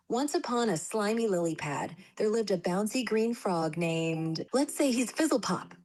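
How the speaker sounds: lively bedtime storytelling voice; story narration. Acted. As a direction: read it like a children's storybook. AI reads children's story.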